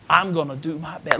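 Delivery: now declare it out loud; firm vow. Shown as a demonstration. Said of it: "vow said twice".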